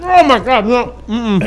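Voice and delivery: high, recoiling disgust. Real, not acted. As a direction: pull back from a bad smell. Smelling the vinegar-smelling AC.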